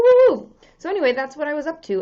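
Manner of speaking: ordinary delivery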